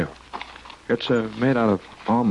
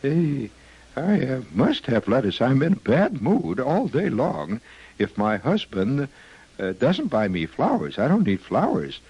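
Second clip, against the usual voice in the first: quoting a lettuce lover; 5 semitones higher than usual. Retold or imitated. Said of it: "We quote her, says".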